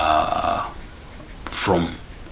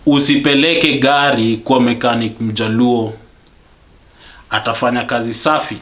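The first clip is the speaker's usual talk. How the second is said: loud, higher-pitched angry warning; emphatic, raised-voice venting; real rant; 4 semitones higher, 4 dB louder than usual. Real, not acted. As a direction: warn them hotly, mid-rant. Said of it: "I'm ranting like I'm ranting right now".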